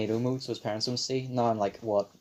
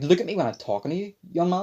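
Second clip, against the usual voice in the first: scolding mum; 7 semitones higher, 4 dB louder, faster than usual. Retold or imitated.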